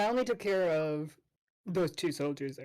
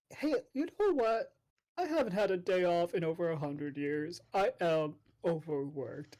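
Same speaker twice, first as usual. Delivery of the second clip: soldier voice. Acted.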